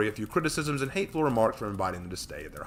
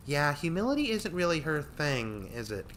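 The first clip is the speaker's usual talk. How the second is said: snickering; 7 semitones higher than usual. Acted. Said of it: "Katie snickered".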